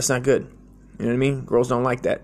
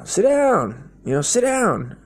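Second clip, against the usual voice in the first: higher insistent voice for the uncle; creepy uncle; 8 semitones higher, slower than usual. Retold or imitated. Uncle urging the scared boy to sit, higher coaxing voice. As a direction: coax the kid to sit down. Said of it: "his uncle's like".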